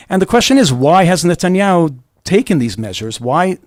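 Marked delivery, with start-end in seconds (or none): none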